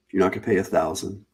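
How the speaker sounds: quick, eager sales pitch; infomercial voice. Real, not acted. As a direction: rattle it off like a TV ad. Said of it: "I almost sound like an infomercial now".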